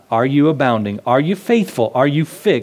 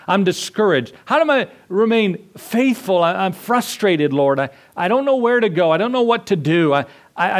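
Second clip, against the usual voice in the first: higher, pleading and worn down; discouraged prayer; 5 semitones higher than usual. Acted. A lost believer cries out to the Lord, pleading and discouraged. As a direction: pour out frustration to God.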